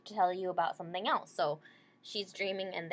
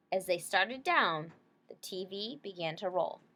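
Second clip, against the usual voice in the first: clear, gentle picture-book read-aloud; reading to children. Acted. Teacher reading a picture book to her class, gentle read-aloud.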